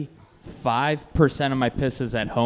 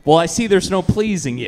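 mock offended; 3 semitones higher than usual. Mock offended reply to teasing.

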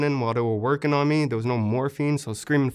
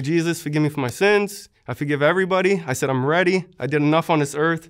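mild mock yell, pitched up, pleading; retold pleading scream; 3 semitones higher, 3 dB louder than usual. Wounded soldier crying out to God, mild retold yell. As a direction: replay the desperate prayer half-voiced, higher. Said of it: "I was screaming to God".

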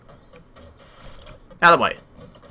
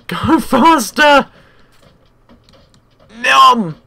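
high laughing urge to go faster; excited urging; 6 semitones higher, 4 dB louder, much slower than usual. Real, not acted. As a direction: egg it on, giggling.

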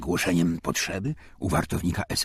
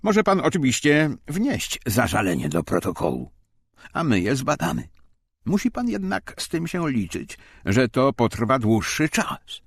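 a hint of mock politeness, higher and louder; overly courteous German official; very polite officer; 8 semitones higher, 5 dB louder than usual. A narrator's reading. Westermajer to the protesting Arlet, mockingly polite. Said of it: "Westermajer bardzo grzecznie".

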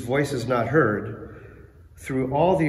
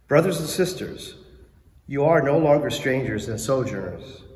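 measured formal reading; scripture reading. Real, not acted. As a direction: proclaim the reading clearly. Lector reading scripture aloud.

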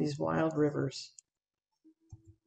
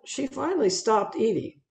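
emphasis on "finally", pitched higher; stress on finally; 4 semitones higher than usual. Real, not acted. Speaker telling audience the mother bear stopped eating, stressing "finally". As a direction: lean hard on the word "finally". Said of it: "I want to emphasize the word finally".

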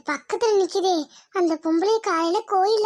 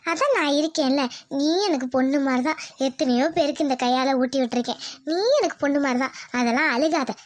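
lower, soothing scolding; motherly comfort; 6 semitones lower than usual. Acted. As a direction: gently hush someone who is crying. Motherly comfort to crying Rita. (தாய் போல ஆறுதலாக)

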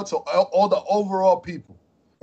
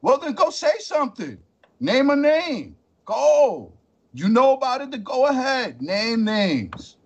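higher, heated challenge; calling out; 5 semitones higher, slower than usual. Real, not acted. Host calling out a critic, heated and raised. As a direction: dare him to name names.

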